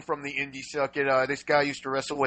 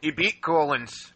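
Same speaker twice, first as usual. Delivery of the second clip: slow, drawn-out Irish accent; 4 dB quieter, slower than usual. Real, not acted. Cohost reporting a match result, accidental Irish accent. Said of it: "why am I talking Irish".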